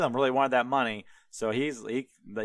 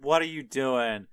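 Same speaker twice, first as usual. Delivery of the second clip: louder, exasperated rant at the hired prophet; furious outburst; 4 dB louder than usual. Retold or imitated. The king rants at Balaam for blessing his enemies, loud and exasperated. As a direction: blow up at him, mock furious. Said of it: "loses his shit".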